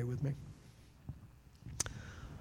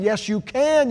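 "yes, you can" much louder and higher; "yes, you can" as a rousing pulpit cry; shouted affirmation; 9 semitones higher, 9 dB louder than usual. Shown as a demonstration. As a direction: belt "yes, you can" to the back row. Loud take after the quiet one.

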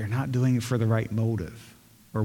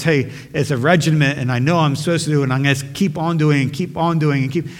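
raised, hurried run-on; dutiful rote insistence; 4 semitones higher, 5 dB louder than usual. Acted. Church member serving because it's a regiment, dutifully rattling on. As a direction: rattle it off like a routine obligation.

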